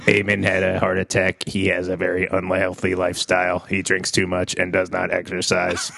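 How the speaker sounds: flat stiff robot voice; toy robot voice. Pretend. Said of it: "Eamon Bot".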